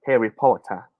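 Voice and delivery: Harry Potter in a British accent; imitated British accent. Shown as a demonstration. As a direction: demonstrate British English, dropping the final r. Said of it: "The British accent".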